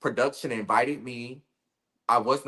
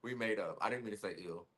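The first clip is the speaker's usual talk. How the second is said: sheepish apology; 6 dB quieter than usual. Real, not acted. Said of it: "it's cool".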